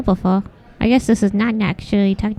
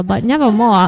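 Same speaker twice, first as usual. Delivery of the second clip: laughing; 3 semitones lower, 4 dB louder than usual. Real, not acted. Laughing while answering.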